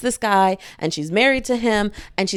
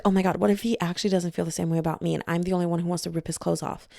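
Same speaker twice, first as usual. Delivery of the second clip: hurried, softer worried musing; anxious hushed thoughts; 3 semitones lower, 6 dB quieter, faster than usual. Acted. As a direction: rush it under your breath like a secret fear. Character's anxious inner thoughts.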